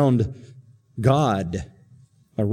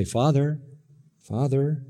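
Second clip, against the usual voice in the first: respectful; 5 dB quieter than usual. Retold or imitated. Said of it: "You say".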